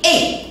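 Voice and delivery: E read as open "è"; sound demo. Shown as a demonstration. Teacher reading unaccented E before double consonants as "è". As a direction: say E as "è", not "euh". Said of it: "je lis E".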